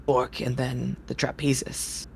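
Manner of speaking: a gruff, impatient circus ringmaster scolding. Acted. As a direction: grumble at the late performer. Ringmaster reads schedule.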